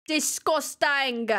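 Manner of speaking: slow, dragged-out disgust; slow grossed-out drawl; drawn-out disgust. Real, not acted. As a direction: stretch it out in revulsion.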